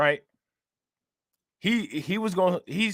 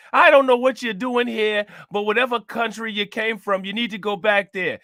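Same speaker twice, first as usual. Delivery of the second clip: put-on cranky old mayor; 5 semitones higher, 3 dB louder than usual. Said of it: "Sounded like a old ass, uh, nanny".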